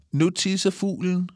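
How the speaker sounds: high, teasing triumph; gleeful announcement. A narrator's reading. Pip about to soak Kalle from the tree, high glee. Girl triumphantly pours water on boy.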